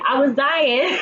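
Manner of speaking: said through real laughter; cracking up mid-sentence; laughing. Real, not acted. Laughing at Issa slipping.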